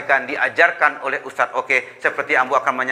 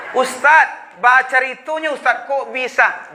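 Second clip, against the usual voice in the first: imitating a puzzled congregant; 9 semitones higher than usual. Preacher mimics a puzzled congregant asking, high and amazed. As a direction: pitch it up like an amazed listener.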